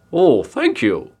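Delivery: slow, loud, drawn-out pig voice; pleased pig. A narrator's reading. Pig taking an insult as praise, slow and pleased. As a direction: stretch it out as if flattered.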